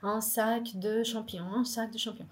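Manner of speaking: careful, quiet French rehearsal; rehearsing French. Acted. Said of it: "eu treinei em casa".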